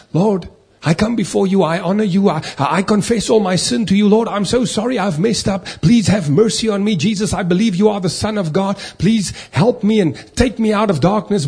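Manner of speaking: imitated earnest confession in one rush; penitent sinner's prayer. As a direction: act out a new convert begging for mercy. Acting out a sinner's salvation prayer.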